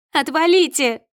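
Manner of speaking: high, loud snarl at the crowd; enraged woman yelling at onlookers; furious yell. A narrator's reading. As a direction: drive them off with a shout. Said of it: "кричит она собравшимся".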